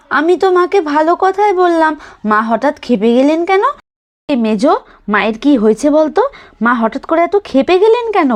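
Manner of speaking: a hint of surprised asking; puzzled eldest daughter-in-law. Eldest daughter-in-law asking why mother-in-law got angry, mildly puzzled.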